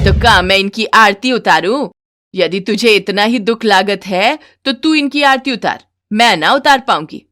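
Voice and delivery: mother-in-law retorting to her son; sarcastic mother-in-law. Acted. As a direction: throw the sarcasm back at him.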